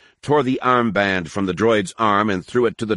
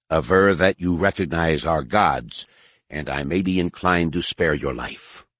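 menacing alien priest; 3 semitones lower than usual. Acted. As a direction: challenge him, low and cold. Harar threatens the prisoner.

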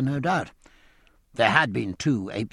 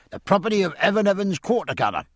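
a master-at-arms reading out charges; hoarse official; 8 semitones higher, faster than usual. Acted. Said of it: "speaking hoarse and official".

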